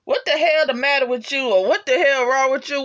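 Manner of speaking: high, loud mock exclamation; imitated catchphrase. Fan quoting the hero's favorite saying, loud mock outburst. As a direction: belt it out high like a quoted catchphrase. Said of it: "my favorite saying from him".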